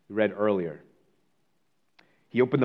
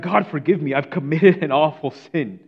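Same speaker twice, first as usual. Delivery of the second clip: louder, higher anguished plea; crying out; 3 semitones higher, 6 dB louder than usual. Retold or imitated. Mister Thorpe crying out to God in the bar, louder. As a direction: call out to God for mercy. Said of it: "he begins to cry out".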